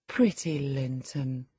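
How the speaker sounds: soft, slow and fond; softly fond, like petting a child; tender. Acted. Stroking his hair.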